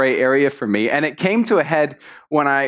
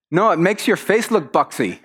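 lightly acted matter-of-fact verdict; blunt Dutch girl; 4 semitones higher than usual. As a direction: deliver the criticism without cushioning. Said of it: "this Dutch girl goes".

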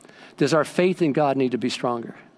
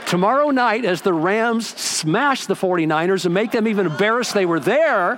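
excited gloating; 3 semitones higher than usual. Real, not acted. Gloating over football rivals.

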